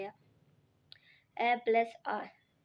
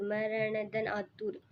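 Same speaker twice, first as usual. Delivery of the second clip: slow syllable-by-syllable dictation; much slower than usual. Shown as a demonstration. Teacher repeats example slowly.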